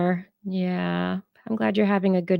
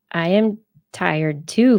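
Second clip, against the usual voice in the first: ordinary talk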